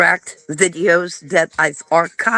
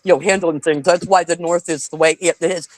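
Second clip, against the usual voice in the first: mocking Southerner; 3 semitones lower than usual. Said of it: "constantly says".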